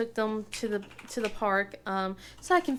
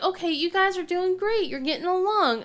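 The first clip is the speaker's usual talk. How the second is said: sweet mom encouragement; 8 semitones higher, 3 dB louder than usual. Retold or imitated. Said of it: "I'm like".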